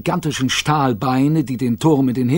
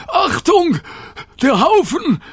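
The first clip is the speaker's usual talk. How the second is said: much higher, louder warning shout; 4 dB louder, slower than usual. A narrator's reading. Rover warning Mister Mac of the pile, high loud shout. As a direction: yell a warning about the pile. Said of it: "schrie er".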